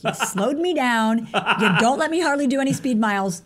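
laughing through the words, slowing down at first. Retold or imitated. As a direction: retell his words while laughing. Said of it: "And he just starts laughing".

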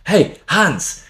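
high, sing-out call to an enemy; hammed-up high holler. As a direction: call the name out across the trenches. Soldiers calling out a name in joke.

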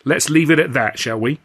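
firm settling tone. Acted. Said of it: "a mother separating two squalling brats".

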